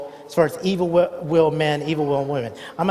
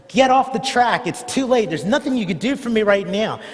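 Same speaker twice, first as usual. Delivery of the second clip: retold yell; 5 semitones higher than usual. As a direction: shout a warning to the husband from the tracks. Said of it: "She yells at her husband".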